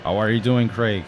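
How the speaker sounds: bright sing-song teasing of Craig; playful greeting. Acted. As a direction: call out to a friend with mock excitement.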